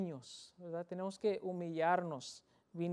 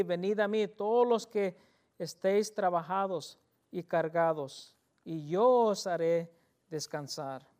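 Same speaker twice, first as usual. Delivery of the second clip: louder solemn reading of the verse in Spanish; scripture reading; 6 dB louder than usual. Shown as a demonstration. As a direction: proclaim the invitation. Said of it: "La invitación aquí".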